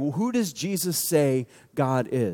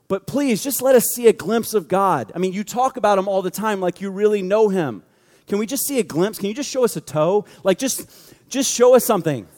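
acted-out begging disciple; coaxing, exasperated plea; mock pleading; 2 semitones higher than usual. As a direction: plead half-jokingly for just a glimpse. Acting out Philip pleading with Jesus.

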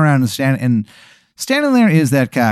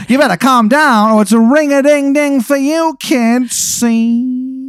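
high, loud wiseguy threat; old-timey mobster warning, cocky; 1920s gangster; 13 semitones higher, 4 dB louder, slower than usual. Acted. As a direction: cactus gangster threatening the listener. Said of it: "now you're, like, James Dean".

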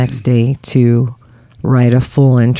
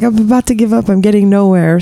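frustrated; 7 semitones higher, faster than usual. Retold or imitated. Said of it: "I was like".

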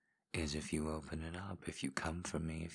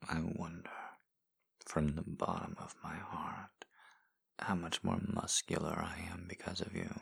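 intimate ASMR whisper; 2 semitones higher than usual. Acted. Voice in a lover's ear, guiding in whisper. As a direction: coax them on in a hushed whisper. Erotic audio whispered guidance.

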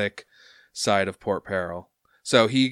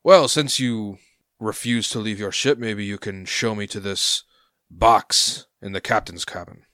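louder, pointed official demand; demanding harbor master; 5 dB louder than usual. Acted. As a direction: push the captain to show the box. Harbor master demands to see box.

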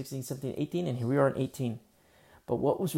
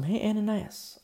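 the Lord calling; 8 semitones higher than usual. Acted.

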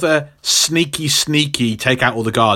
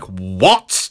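low, affronted mock question; Jessica; 4 semitones lower than usual. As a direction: drop low on an offended question. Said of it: "And she's like".

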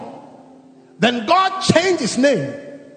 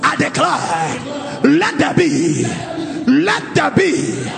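fervent declaration prayer. Acted. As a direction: declare it over them with full force. Leads congregation in declaration prayer.

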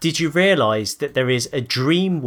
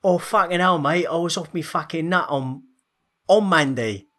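mock Cockney hard-man voice, pitched up; Danny Dyer; 4 semitones higher than usual. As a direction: plead an excuse in exaggerated Cockney. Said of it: "have to be Danny Dyer".

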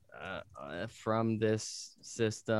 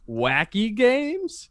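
excited; 10 semitones higher, 6 dB louder, much slower than usual. Acted. Announcing wacky games main event.

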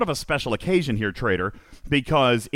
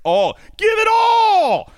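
much higher and louder, slow, hammed-up demand; mock shout; 7 dB louder, slower than usual. Host imitating the guest's demand for more events, mock shout. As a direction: bellow it like a greedy fan wanting everything. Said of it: "you've often been the guy that says".

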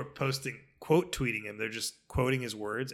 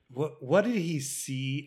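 announcer voice; 3 semitones higher, 5 dB louder, much slower than usual. Retold or imitated. Broadcaster voiced in retold story.

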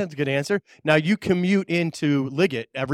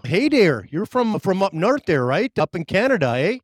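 playful, lightly put-on Canadian accent; mock Canadian accent; 3 semitones higher than usual. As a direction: tease him with a hokey Canadian accent, eh. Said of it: "Did you like my accent?".

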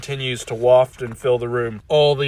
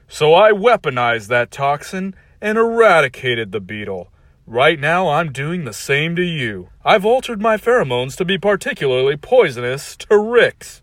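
villain monologue; 4 semitones higher, 5 dB louder than usual. Acted.

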